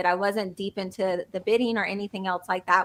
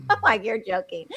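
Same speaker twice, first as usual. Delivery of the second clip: giggling retelling. Retold or imitated. Contractor answering pushy property manager, giggling in disbelief. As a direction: act out giggling at an aggressive client. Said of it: "I start giggling".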